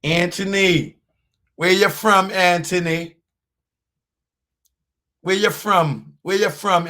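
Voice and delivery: loud call-out. Acted. Calling out a commenter.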